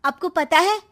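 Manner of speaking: put-on a young daughter spreading gossip to mother; sly daughter whispering a secret to mom; Srishti's scheming voice.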